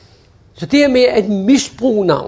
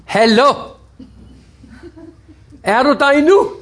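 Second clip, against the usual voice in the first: impatient hallo; 5 semitones higher than usual. Retold or imitated. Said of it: "så siger man ikke".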